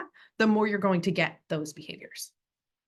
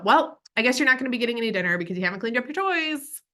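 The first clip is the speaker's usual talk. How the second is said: fast, snide guilt trip; passive aggressive; 4 semitones higher, 3 dB louder, faster than usual. Shown as a demonstration. Parent guilt-tripping child over toys, passive aggressive. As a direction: needle the child with a threat. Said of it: "the passive aggressive".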